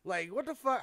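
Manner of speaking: hammed-up scolding, half shouting; exasperated retold yell. Telling off the stalling co-host, mock exasperated yell.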